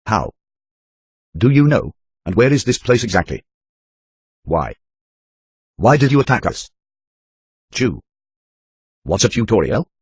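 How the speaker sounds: lightly voiced panicked captive; a hint of a frantic woman; frightened woman.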